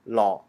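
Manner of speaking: "law" with an open aw vowel; white dialect pronunciation. Shown as a demonstration. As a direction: say "law" as white Hmong for come straight here. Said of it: "in the white dialect".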